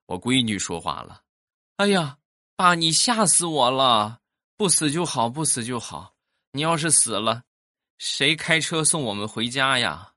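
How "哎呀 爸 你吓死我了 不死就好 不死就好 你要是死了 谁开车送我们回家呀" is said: relieved daughter. Retold or imitated. Daughter telling dad he scared her, high childish voice. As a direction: blurt it out like a kid.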